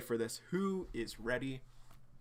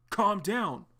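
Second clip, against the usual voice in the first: higher, louder firm command with a falling end; forceful calm down; 8 semitones higher, 6 dB louder than usual. Acted. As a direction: order him to stop. Arlo restraining John.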